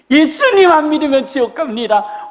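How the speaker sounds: high, loud street megaphone call; megaphone preacher. Retold or imitated. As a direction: announce it like through a megaphone. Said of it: "막 저렇게". (메가폰 든 전도자 흉내)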